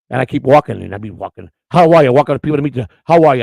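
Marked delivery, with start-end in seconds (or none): 1.7-2.1 loud, hearty mock-hero hail; booming retold greeting; superhero greeting. Batman greeting shoppers, retold. 3.0-3.4 loud, hearty mock-hero hail; booming retold greeting; superhero greeting. Batman greeting shoppers, retold.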